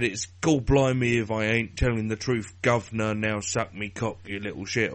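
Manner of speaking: lightly done mock Cockney rant; a hint of a rough Cockney bloke. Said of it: "or whatever it was he said".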